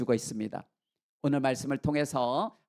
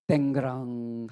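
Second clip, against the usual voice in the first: imitated clang; 5 semitones lower, slower than usual. Imitates silver cup dropping.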